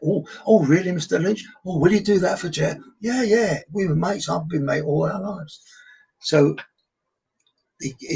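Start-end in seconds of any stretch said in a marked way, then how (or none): 0.1-2.8 lightly voiced, higher fawning crew; a hint of starstruck TV staff; gushing TV people. 3.0-5.6 higher, breezy matey reply; a light imitation of his best mate; best mate bragging to the TV crew; Kenny playing along. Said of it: "that Kenny Lynch said to me".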